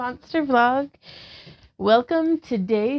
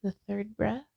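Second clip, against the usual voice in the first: calm, even guiding voice, a touch softer; guided yoga instruction; 4 dB quieter than usual. Acted. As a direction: talk the class through each pose gently. Leads a yoga class.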